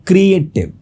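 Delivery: "क्रिएटिव" in three beats, क्री-ए-टिव; split into syllables. Shown as a demonstration. Teacher repeating for students, "क्रिएटिव" split as क्री-ए-टिव. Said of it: "तीन syllable है".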